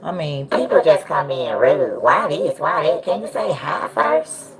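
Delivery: squeaky voice changer chipmunk. Real, not acted. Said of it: "Why you sound like a chipmunk".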